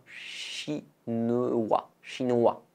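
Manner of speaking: "Chinois" ending on an open "wa", no S sounded; silent S shown. Shown as a demonstration. Teacher demonstrates the silent S to learners. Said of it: "ne prononcez pas le S".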